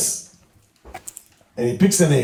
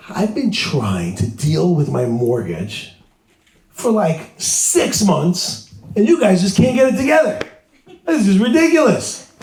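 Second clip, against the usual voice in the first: fed-up complaint; 3 semitones higher, slower than usual. Retold or imitated. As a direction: vent about the bank, rising in annoyance. Caller complains about his mortgage.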